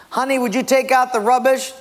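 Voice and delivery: high-pitched wife voice; imitated wife calling to husband; wife's request. Wife's request in acted marital quarrel.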